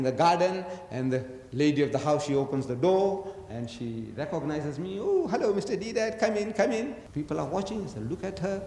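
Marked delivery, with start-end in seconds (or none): 5.0-7.0 high, overly sweet "come in" from a hostess; gushing hostess welcome. Acted. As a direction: play the lady of the house greeting a guest too warmly. Lady of the house welcoming him.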